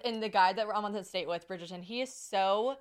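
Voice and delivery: ordinary delivery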